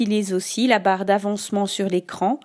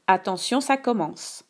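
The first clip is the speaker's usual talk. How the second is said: dictating. Shown as a demonstration. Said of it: "Je te dicte la phrase deux".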